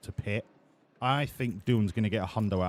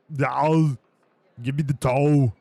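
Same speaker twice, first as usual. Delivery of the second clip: loud, bellowing, pitched-up demand; Lou Ferrigno-style whine; 3 semitones higher, 8 dB louder than usual. Retold or imitated. Still mocking Oscar, loud bellowing toe demand. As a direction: roar it like a bodybuilder wanting toe. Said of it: "He sounds a lot like Lou Farina".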